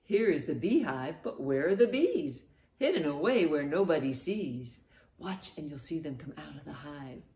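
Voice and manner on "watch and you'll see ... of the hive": much softer, as if watching in secret; hushed anticipation. Pretend. Children's teacher waiting for bees to leave the hive, hushed suspense. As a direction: softly build suspense.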